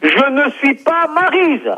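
real exasperation, every word stressed; exasperated insistence. Real, not acted. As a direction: spell out JE NE SUIS PAS MARYSE word by word. Exasperated repeat to deaf caller.

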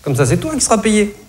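psy imité, voix très aiguë. Retold or imitated. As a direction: singer le psy d'une voix perchée. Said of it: "mon psy m'a dit". (psy imité d'une voix très aiguë)

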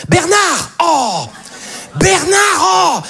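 high, urgent mock yell; mother calling out. Mother chasing her four-year-old son, high frantic calling. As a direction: holler after a runaway child. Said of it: "je vois une mère qui court après son enfant".

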